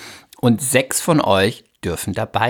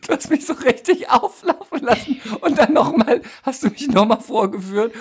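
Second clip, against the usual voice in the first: laughing; 12 semitones higher than usual. Real, not acted. Complains while laughing.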